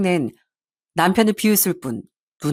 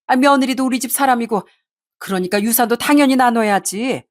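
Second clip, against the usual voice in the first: mildly indignant, higher-pitched protest; complaining mother; 4 semitones higher than usual. Acted. Mother defending her greed to her son, indignant complaint. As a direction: argue back with lightly acted grievance.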